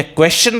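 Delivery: क्वेश्चन as "kwe-shun"; wrong pronunciation. Shown as a demonstration. Teacher asking which is right, wrong version. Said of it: "क्वेश्चन आपका गलत है".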